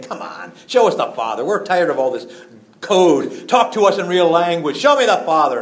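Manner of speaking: mocking demand. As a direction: jeer at him, asking for plain talk.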